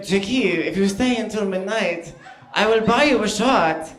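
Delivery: put-on lightly done, botched Brazilian accent like gay French Dracula; Bruno's bad accent. Comic imitating his friend Bruno offering a shot, badly faked accent. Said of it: "It's gonna sound like gay French Dracula".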